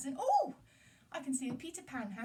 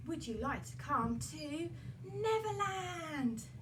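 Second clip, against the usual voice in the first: excited invitation; 3 semitones higher, 3 dB louder, slower than usual. Acted. Peter invites Wendy.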